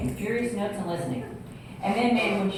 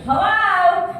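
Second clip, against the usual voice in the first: put-on higher, louder young girl's hello; girl answering phone; 10 semitones higher, 8 dB louder than usual. Daughter picking up the phone, bright higher hello. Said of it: "this girl answers".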